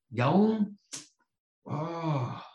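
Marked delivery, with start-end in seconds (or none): 1.6-2.4 choked up. Real, not acted. Emotional sermon climax.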